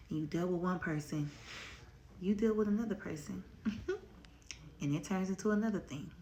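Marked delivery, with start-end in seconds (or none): 2.2-6.1 breathless, quick words; out of breath. Real, not acted. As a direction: talk while catching your breath. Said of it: "why I'm out of breath".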